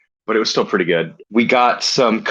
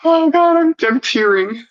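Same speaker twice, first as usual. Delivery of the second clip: tearing up laughing; 4 semitones higher than usual. Real, not acted. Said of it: "I'm tearing up and I'm wheezing".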